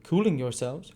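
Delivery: retort. A narrator's reading. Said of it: "retorted Monks".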